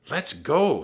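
high, loud excited shout; urgent cry. A narrator's reading. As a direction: cry it out to get everyone moving. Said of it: "he cried".

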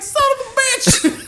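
very high, loud, drawn-out curse; high slow curse. Retold or imitated. Tased driver howls curse at the cop, very high. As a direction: howl it slowly in pain.

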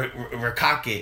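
Rakake said slowly as ruh-KAH-kit, stress on the middle; Rakake, slow and drawn, middle syllable hit; Jericho's pronunciation. Retold or imitated. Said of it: "like Jericho says".

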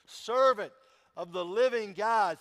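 a king calling out in anguish. A narrator's reading. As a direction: call down into the den, anxious. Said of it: "he called to Daniel in an anguished voice".

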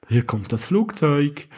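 slow here-comes-the-plane voice; like spooning food to a toddler; feeding a baby. Pretend. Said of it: "wie ein Fußballmatch". (Baby füttern, langsam)

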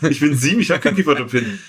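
a lightly voiced child caught off guard; playing a seven-year-old. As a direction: answer like a shy seven-year-old at the dentist. Answering as seven-year-old at dentist.

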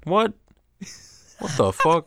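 sharp, loud, rising disbelief; shocked. Real, not acted. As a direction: blurt it out in shock. Shocked at news of group chat.

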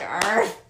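dog bark. Shown as a demonstration. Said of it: "No, I'm like".

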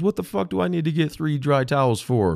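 mock outrage at the dispatcher; hammed-up angry yell; furious husband. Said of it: "he was so mad".

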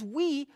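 "we" lifted high as the key word; stress on we. Shown as a demonstration. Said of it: "I emphasize certain words".

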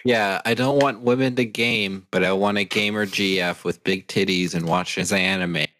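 monotone mock-earnest fan; understated sarcastic impersonation; deadpan sarcasm. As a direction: parody a hypocrite with a straight delivery. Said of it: "we're being very sarcastic here".

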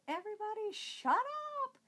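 put-on a high, fed-up yell at the kids; snapping at the whole family; angry shout. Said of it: "that one day I lost it".

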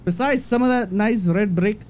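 bad mock-Irish post reading; amateur Irish accent, slipping as it goes; attempted Irish accent. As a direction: read it as a fake Irish McGregor. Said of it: "Read it in his accent".

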